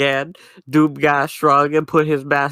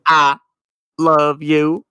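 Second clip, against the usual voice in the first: demonic voice; 4 dB louder, slower than usual. Acted. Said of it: "he said in a demonic voice".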